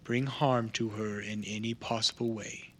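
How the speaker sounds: lightly voiced, deliberate assurance with long pauses; a hint of stern formality, held back and careful; measured stern contact. Contact promising no harm to her, mildly stern.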